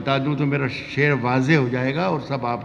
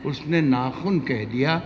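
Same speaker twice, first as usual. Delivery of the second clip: ghazal recitation; slower than usual. Acted.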